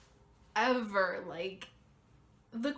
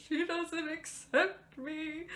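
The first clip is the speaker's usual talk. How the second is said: retold upset text; 7 semitones higher, slower than usual. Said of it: "bawling my eyes out".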